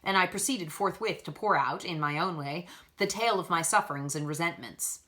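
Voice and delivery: measured, even storytelling read; story narration. A narrator's reading. Reader narrating a classic novel chapter, steady storytelling voice. Reads Jane Eyre chapter aloud.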